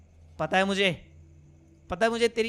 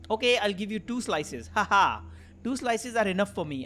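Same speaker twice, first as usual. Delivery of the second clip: slow, measured English dialogue reading; game dialogue read-out; much slower than usual. Acted. Player voicing pizza delivery chat, slow read-out. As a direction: read each line out deliberately, drawing out phrase ends.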